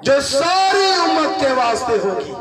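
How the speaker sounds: the angel calling out joyful tidings to the shepherds; proclaiming angel. Acted. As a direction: announce it like a herald from heaven.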